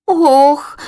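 high startled cry of dismay. Acted. Lazy chick gasps at flying to the hills. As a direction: gasp at the hard news. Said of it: "викрикла Лінивка".

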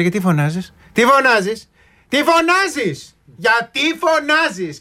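high, slow mock mother scolding; mother scolding her child, mock high and slow; imitating mothers. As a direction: drag it out like a nagging mum. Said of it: "Σου λέει".

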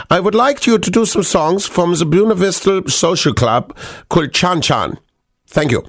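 put-on German voice; German accent. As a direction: read the request in a mock German accent. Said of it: "allowed to do the German accent".

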